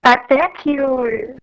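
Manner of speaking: choppy breaking-up call audio; corrupted audio. Real, not acted. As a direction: voice cutting out on a bad line. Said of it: "É seu áudio tá falhando".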